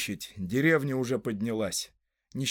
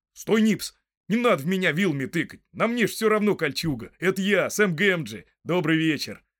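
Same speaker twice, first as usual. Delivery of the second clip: higher, louder, hurried protest; calling out urgently; 4 semitones higher, 4 dB louder than usual. Acted. Hobbit stopping a friend with a pitchfork, calling out urgently. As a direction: halt him and identify yourself.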